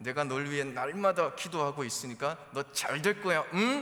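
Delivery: loud, high, forced through gritted teeth.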